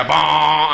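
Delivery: drawn-out imitated motor sound; comic sound effect; motor noise. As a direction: make a silly little motor noise.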